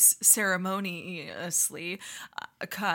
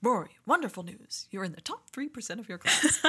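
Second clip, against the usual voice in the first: Richard Gilmore; 2 semitones higher than usual. Retold or imitated. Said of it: "It's me as Edward Herman".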